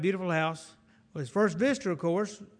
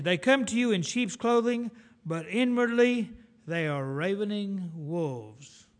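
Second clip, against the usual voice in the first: solemn warning; 3 semitones higher, 4 dB louder, slower than usual. Retold or imitated. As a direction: proclaim it as a warning from the pulpit. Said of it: "He says, warning us".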